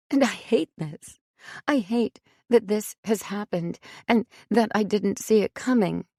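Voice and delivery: a mother pouring out self-blame, in anguish; raw anguished outburst. A narrator's reading. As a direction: let the dam burst, rising as she goes. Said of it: "the dam that had broken within her".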